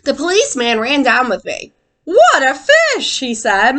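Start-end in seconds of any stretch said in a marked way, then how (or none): 2.0-3.2 high, slow, amazed "What a fish"; amazed gasp. Acted. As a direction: stretch it out in wonder at the huge fish. Policeman amazed at huge fish.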